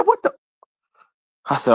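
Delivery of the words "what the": retold disbelief. Ignored by walking worker.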